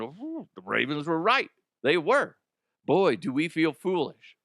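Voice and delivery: mildly hammed-up "ooh, they were right"; mock realisation. Host imagining everyone admitting the Ravens were right, mock realisation. Imagined future admission of being wrong.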